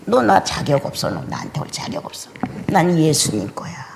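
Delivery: hushed, firm dismissal of the devil; quiet rebuke. Pretend. Believer rebukes the devil, hushed and firm. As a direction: turn the devil away under your breath. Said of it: "이렇게 책망하고 물리치고".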